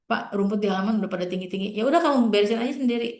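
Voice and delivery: quick, brushing-off father; cold dismissive reply. Retold or imitated. Father brushing off his child's request, fast and dismissive. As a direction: rattle it off, you can't be bothered. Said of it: "nggak hangat sama sekali".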